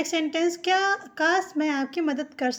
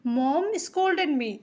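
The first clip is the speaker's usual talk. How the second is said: "mom scolded me" very slow and even; slow dictation for learners; word by word model sentence; slow teaching read; much slower than usual. Shown as a demonstration. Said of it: "हम कहेंगे".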